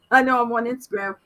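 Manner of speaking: laughing. Real, not acted. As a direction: laugh through the repeat. Laughs at own repeated line.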